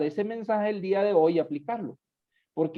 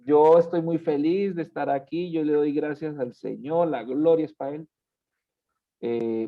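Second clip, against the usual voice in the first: tired, listless greeting. Shown as a demonstration.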